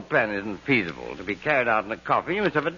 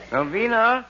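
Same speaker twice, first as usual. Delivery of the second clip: high, slow, hammed-up sickly call; faking illness; 9 semitones higher, slower than usual. Husband calls wife pretending to be gravely ill. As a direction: call out like a dying man, overdone. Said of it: "as if you were very, very ill".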